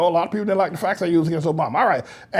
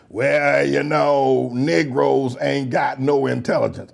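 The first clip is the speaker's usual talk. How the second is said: slow, lower, lightly voiced dialect; put-on Negro talk; 6 semitones lower, slower than usual. Lightly mimicking a Negro speaker he mocks. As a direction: drag the words out in a mock folksy voice. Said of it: "I'm talking like a Negro now".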